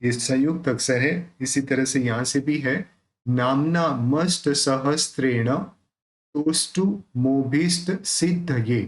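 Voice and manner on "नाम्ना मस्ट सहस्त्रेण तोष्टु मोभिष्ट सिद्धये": नाम्ना with m and n joined, said slowly; careful Sanskrit recitation; slow recitation demo. Shown as a demonstration. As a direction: spell out नाम्ना as a conjunct. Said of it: "ये जो म और न है यहाँ पे".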